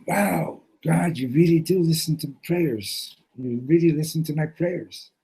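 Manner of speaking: high, thrilled wonder; overjoyed at an answered prayer; amazed thanks. Retold or imitated. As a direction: gasp it out to God in disbelief. Thanking God after finding the money.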